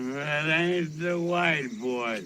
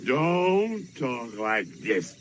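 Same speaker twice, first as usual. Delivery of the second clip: slow, stern quoted father's correction; a hint of a stern daddy; quoting his father; 3 semitones lower, slower than usual. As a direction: lay down the rule slowly like a strict father. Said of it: "My daddy said".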